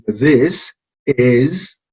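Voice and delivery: this is run together as one word; linked this is. Shown as a demonstration. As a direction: join the s of this into is. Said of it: "este es el sonido E".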